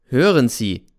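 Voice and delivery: laut aufgebracht; lauter, erregter Zuruf; Anschreien. Acted. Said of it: "schrei ich ihn an". (Erzähler schreit Cäsar im Regen an, laut)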